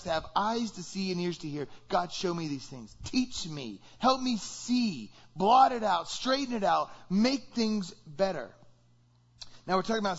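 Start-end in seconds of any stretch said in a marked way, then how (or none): 1.9-8.5 pleading prayer. Acted. Voices a closing prayer.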